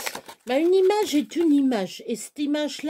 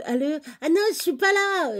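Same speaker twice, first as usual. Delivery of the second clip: higher, lightly voiced brush-off on the phone; mock friend dodging; 5 semitones higher than usual. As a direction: play the friend pretending not to be home. Imite un ami qui l'évite. (imitant l'ami qui se défile au téléphone)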